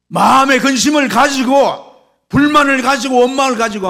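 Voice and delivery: loud, high-pitched sermon cry; impassioned high, loud preacher; full-force preaching. Real, not acted. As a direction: preach it with rising fervour at full volume.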